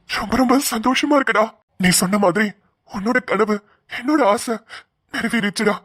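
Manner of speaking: halting, tearful pride; happy tears. Acted. Brother moved that Aadhi became police, tearful joy. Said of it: "அப்புறம் எதுக்கு அழுவுறீங்க?".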